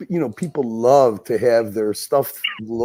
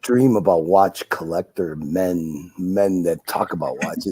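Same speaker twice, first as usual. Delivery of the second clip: sultry voice; 4 semitones lower than usual. Pretend. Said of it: "you sound so goddamn sexy".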